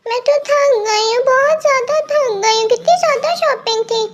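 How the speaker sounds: put-on light girlish voice, weary after shopping; tired girl voice. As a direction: sigh it out like a worn-out young girl.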